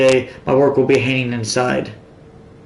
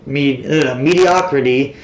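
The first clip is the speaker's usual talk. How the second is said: talking with a tissue stuffed in nose; nose plugged with tissue, stumbling; tissue up one nostril. Real, not acted. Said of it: "It's hard to talk with a fucking tissue stuffed in my nose".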